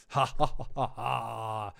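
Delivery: slow, theatrical evil "ha ha ha"; hammy villain laugh. Acted. Streamer mocks the Triarchy villain, hammy villain laugh. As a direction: laugh like a scenery-chewing villain. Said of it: "eating scenery, being like".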